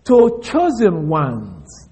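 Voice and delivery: slow, deliberate word by word; slow literal reading. Shown as a demonstration. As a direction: read each word out slowly. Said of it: "That's the way it goes in the Greek".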